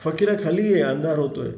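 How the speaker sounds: urging. Acted. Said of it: "आग्रह करू लागले".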